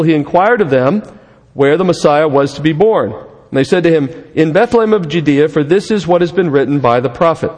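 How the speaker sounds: measured, projected Bible reading; scripture reading. Real, not acted. Pastor reading Matthew's account of the Magi, measured scripture reading. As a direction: read the passage out clearly to a congregation. Reads scripture aloud to congregation.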